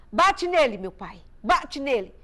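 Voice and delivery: retold child pleading aloud in prayer; pleading cry. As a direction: cry it up to Jesus, hurt. Child praying for father punished.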